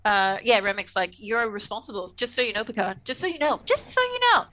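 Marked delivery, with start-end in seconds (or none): 1.2-4.4 needling pitch that rises and rises; mock nagging reminder. Remek needling Picard about the kid's life, mock nagging.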